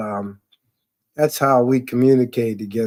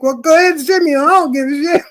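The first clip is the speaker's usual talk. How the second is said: fast, higher and defiant; 13 semitones higher, 3 dB louder, faster than usual. Retold or imitated. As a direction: dare her to send you home. Defiant reply to boss.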